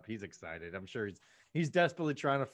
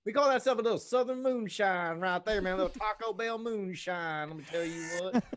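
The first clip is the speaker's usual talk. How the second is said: mocking Dalton voice; 4 semitones higher than usual. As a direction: ham up a dopey good-old-boy buddy. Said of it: "He's like".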